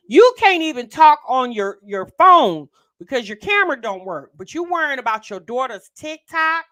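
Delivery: high, loud mocking disbelief; incredulous rant. Real, not acted. Co-host scolds the mom about her bills, high and loud.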